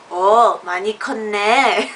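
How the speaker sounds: quoting in Korean. Retold or imitated. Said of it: "in Korean, he was just like".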